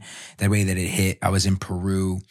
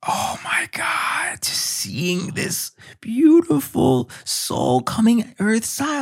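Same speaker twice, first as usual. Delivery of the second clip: breathy whisper, much higher and slow, choked up; tearful whisper; 14 semitones higher, slower than usual. Retold or imitated. Father recalling first sight of baby, choked tearful whisper. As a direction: whisper through tears of awe. Overwhelmed recalling daughter's birth.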